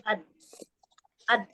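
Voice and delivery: "ad" closed off on the d; sukun on dal. Shown as a demonstration. Student checking whether dal flows, stopped "ad". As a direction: stop the sound at the d of "ad". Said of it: "Coba disukunkan".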